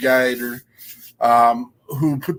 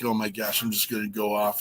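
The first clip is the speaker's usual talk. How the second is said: mild mock fired up; 4 semitones lower, 11 dB quieter, faster than usual. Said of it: "I was a little bit fired up earlier today".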